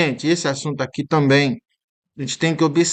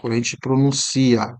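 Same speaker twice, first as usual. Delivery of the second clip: usual speaking voice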